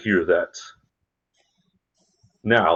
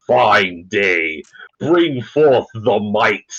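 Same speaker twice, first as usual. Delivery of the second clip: booming, slow rallying speech; magically amplified voice; 2 semitones higher, 4 dB louder than usual. Acted. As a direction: proclaim it to the whole ship. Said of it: "prestidigitation that does the booming voice".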